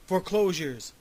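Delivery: indignant snort. A narrator's reading. Grumpy investor correcting the groundhog, indignant snort. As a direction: throw each one out as proof. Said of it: "he said, snorting and thrusting".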